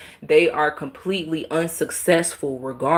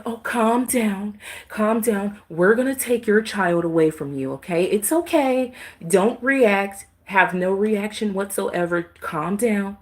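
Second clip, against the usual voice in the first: higher, sing-song condescending calm down; mock soothing official; 5 semitones higher than usual. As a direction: patronize like a fake-calm caseworker. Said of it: "It's like".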